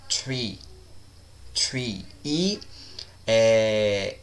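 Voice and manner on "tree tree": "Tree" for three, opening on a hard T; "Tree", no tongue between the teeth. Shown as a demonstration. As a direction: say "Tree" with a plain T in place of TH. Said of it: "como se fossem um T normal".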